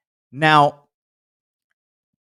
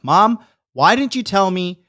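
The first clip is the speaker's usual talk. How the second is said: raised-pitch reproach to mom; angry retelling; 4 semitones higher than usual. Retold or imitated. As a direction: replay an irritated confrontation with mom. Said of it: "I was fucking angry".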